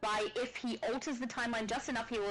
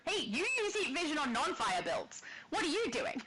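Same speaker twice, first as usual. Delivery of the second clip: playful, laughing protest; mock scolding; 5 semitones higher than usual. Co-host ribbing the other over heat vision builds, mock scolding. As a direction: tease with pretend outrage, pitch jumping up.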